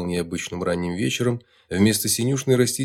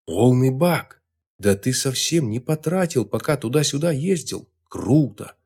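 higher, louder eager chatter; excited; 3 semitones higher, 3 dB louder than usual. Acted. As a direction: rattle it off with delight. Excited boy examining car.

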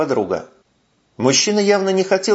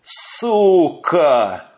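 mock furious shout, a bit louder; 5 semitones higher, 3 dB louder than usual. A narrator's reading. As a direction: spit it out in rage. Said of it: "рвался сержант Сапожников". (сержант яростно кричит на брюнетку)

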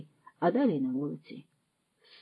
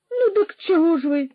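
impatient; 10 semitones higher, 6 dB louder than usual. A narrator's reading. Roman presses impatiently.

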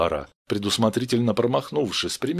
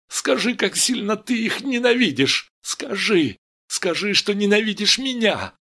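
high, raised, insistent cry; desperate demand; 9 semitones higher than usual. Acted. Steve begs Vera to say she hates, crying out. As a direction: press her harder with each phrase. Стив отчаянно требует.

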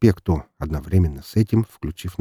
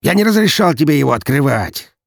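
loud, cold threatening voice; menacing threat; 5 semitones higher, 4 dB louder than usual. Acted. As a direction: threaten him with contained fury. Daniil threatening his brother.

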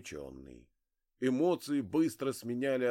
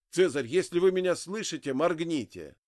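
urgent calling out; 6 semitones higher, 7 dB louder than usual. Acted. Urging dying man to blink.

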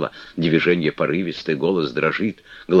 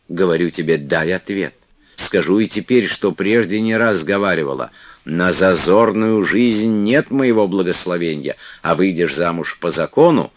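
выше и громче, уговаривая; матушка ласково убеждает; ласковая игуменья; 2 semitones higher, 4 dB louder than usual. Acted. Манефа наставляет. (Манефа уговаривает Флёнушку остаться, ласково)

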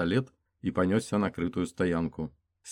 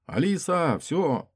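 higher and louder urgent call; 10 semitones higher, 4 dB louder, slower than usual. Acted. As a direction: snap her out of it. Stopping her shooting.

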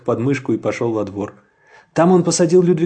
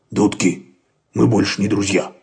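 dog objects; 4 semitones lower than usual. A narrator's reading. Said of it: "возразил пёс и оскалил зубы".

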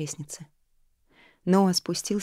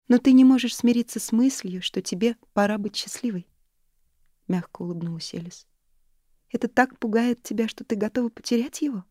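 higher, louder friendly voice; a lightly voiced caring friend, higher; gentle older friend; 6 semitones higher, 6 dB louder than usual. A narrator's reading. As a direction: lift the voice for the warm friend. Narrator voices friend Alice.

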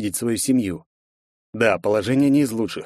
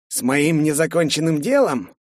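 contemptuous; 5 semitones higher than usual. Acted. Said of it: "презрительный тон".

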